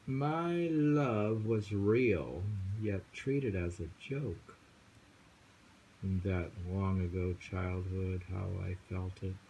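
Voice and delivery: slow, deliberate poetry recital; poem reading. Acted. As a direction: let each line hang like a memory. Reads a poem aloud.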